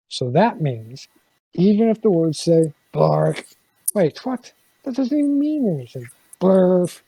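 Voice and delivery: put-on playful, animated read-aloud for a child; reading to children. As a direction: ham up the reluctant reader's protests. Reads The Book With No Pictures aloud.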